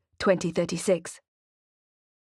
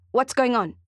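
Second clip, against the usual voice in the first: worried; 5 semitones higher, 3 dB louder than usual. Acted. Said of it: "replaced by worry".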